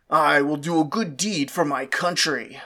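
low, lordly master's voice; stern master. Acted. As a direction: announce it like a self-important lord. Master speaks in dialogue.

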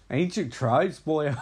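Irish-accented acted quote, lightly put on; mock Irish. Reviewer mimicking a film's hero as Irish, mock Irish accent. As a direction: put on a slight Irish lilt. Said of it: "I'm acting like he's Irish".

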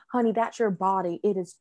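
put-on light Southern US accent; sweet older Southern lady, lightly accented. Nurse soothing a labouring mother, in a Southern accent. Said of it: "I'm making a Southern accent".

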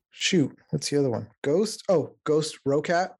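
ordinary delivery

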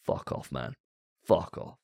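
breathy whispered swear under the breath; whispered curse. Real, not acted. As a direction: mutter it away in disgust. Disgusted after rant.

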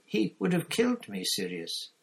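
high, desperate whine; whining. A narrator's reading. Pettigrew pleads fear of being killed, whining. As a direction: plead in self-pity. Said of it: "whined Pettigrew".

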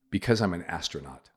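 flat, dry, dead serious; deadpan. Retold or imitated. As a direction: say it with a straight face, no emotion.

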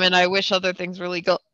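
words pushed out through a burp. Real, not acted. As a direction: talk while burping. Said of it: "my second burp in the night".

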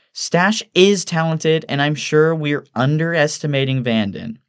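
high-pitched, drawn-out woman's voice; defensive Evelyn. Acted. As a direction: insist on their merits in a high voice. Evelyn defends her friends.

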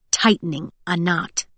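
plain reading voice

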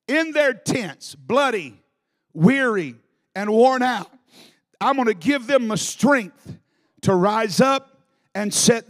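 voice of God. Acted. God answering arrogant Israel, slow and building. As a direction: proclaim as God, growing stronger. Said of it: "And God said".

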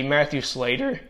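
real small crack in a tiring voice. Real, not acted. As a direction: voice cracks upward on the name. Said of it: "my voice just cracked there again".

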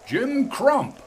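high ringing shout of a name across the dark; calling shout. A narrator's reading. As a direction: hail him from below at full voice. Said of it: "he shouted".

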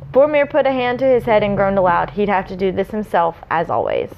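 measured storyteller's read; story narration. A narrator's reading. Reading the prologue to listeners, story narration. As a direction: read it out with mild dramatic weight.

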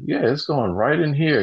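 high-pitched impression of the old man; fat demon voice. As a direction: answer in a high cartoon-demon voice. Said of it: "the fat demon from Hercules".

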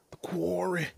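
hushed spooky whisper. Acted. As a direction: whisper the title like a secret. Whispered repeat of title.

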